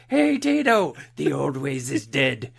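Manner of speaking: a loud teasing hello across the room; mock greeting shout. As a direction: call it out like a goofy greeting. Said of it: "I'm gonna walk up and be like".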